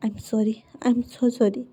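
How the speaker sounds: slow, soft, sorrowful apology; sorry mother. Retold or imitated. Mother apologizes to son, slow and soft. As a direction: ease the words out gently and sadly.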